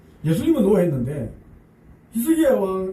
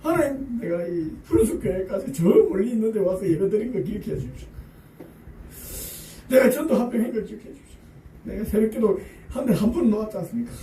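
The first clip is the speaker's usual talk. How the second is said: high, half-laughing plea, wheedling God; mock pleading prayer; 4 semitones higher than usual. 교인이 하나님께 공로를 내세우며 높고 애교스럽게 조르는. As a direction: list your good deeds like a bargaining child. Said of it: "여러분 같으면 어떻게 기도하겠습니까?".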